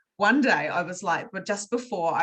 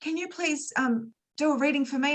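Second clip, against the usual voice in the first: higher, pleading friend imitated; 7 semitones higher than usual. Friend begging the speaker for a reading, higher pleading voice. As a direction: mimic a friend begging for a favour. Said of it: "a friend goes".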